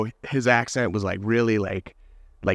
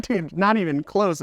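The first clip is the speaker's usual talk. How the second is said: slower, pitched-up teasing comeback; mock retort; 7 semitones higher than usual. Retelling his comeback to the worker, slow and teasing. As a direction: drag it out, dismissive. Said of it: "I was like".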